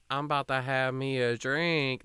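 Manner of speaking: unhurried, folksy mimic of the pregnant aunt; a light imitation of a local Ohio twang; Akron drawl. Pregnant aunt announces she'll drink, slow Akron imitation. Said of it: "That's literally how she says it, too".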